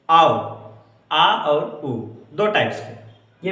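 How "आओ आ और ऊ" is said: आओ said, then split into आ and ऊ; teacher demo of आओ; diphthong demo. Shown as a demonstration. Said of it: "ऐसे".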